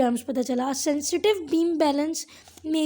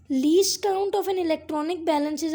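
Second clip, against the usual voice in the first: slow dictation; much slower than usual. Shown as a demonstration. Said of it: "dictating textbook line".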